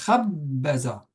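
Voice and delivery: slow "Khabbaza", long first syllable, two short. Shown as a demonstration. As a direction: hold "Khab", release into "ba-za". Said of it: "on entend long, court, court". (« Khabbaza » rythmé longue, brève, brève)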